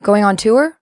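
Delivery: "tour" said as toor with a long oo; Canadian tour. Shown as a demonstration. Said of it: "What's that? Tour?".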